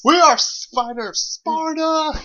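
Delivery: booming slow epic war cry; slow, proud Spartan roar; hammy stage actor. Acted. Mock epic spider battle cry.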